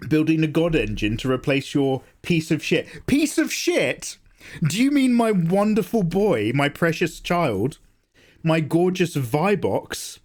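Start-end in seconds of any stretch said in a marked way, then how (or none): 3.1-10.2 mock offended parent.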